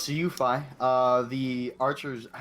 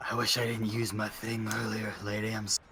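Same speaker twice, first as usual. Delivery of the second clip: raspy weak voice; 3 semitones lower than usual. Acted. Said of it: "he says with, like, a raspy, weak voice".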